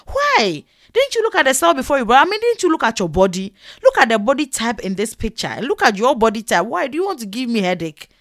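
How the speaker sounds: mock indignant rebuke; sharp-mouthed scolding. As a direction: imitate a tailor telling off a customer. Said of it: "Their mouth is sharp".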